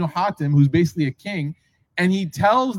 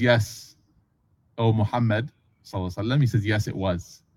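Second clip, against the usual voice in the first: sheepish admission; 7 semitones lower, 5 dB quieter than usual. Retold or imitated. Adi confessing to the Prophet.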